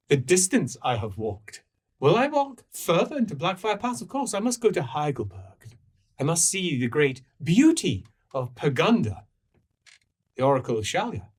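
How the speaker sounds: a touch grandiose about the long journey; impassioned pilgrim. Acted. Pilgrim declaring a holy destination, mildly impassioned. Plays a travel-worn pilgrim figure.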